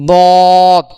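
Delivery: slow, careful recitation of দদ; Arabic letter demo. Shown as a demonstration. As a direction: sound out দদ as a clear Arabic letter. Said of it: "তারপর".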